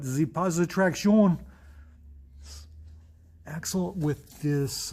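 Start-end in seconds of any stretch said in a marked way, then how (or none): 0.0-1.4 put-on playful French-accented flourish; jokey louder French accent; mock French accent. Joking French flourish on car part.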